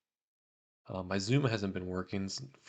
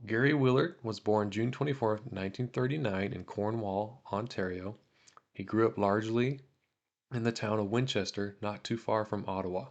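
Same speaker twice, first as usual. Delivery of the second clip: read-aloud biography, a little livelier than chat; measured narration, lifting the start of sentences; 3 dB louder than usual. A narrator's reading. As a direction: read a veteran's life story from a letter. Reads a veteran's biography aloud.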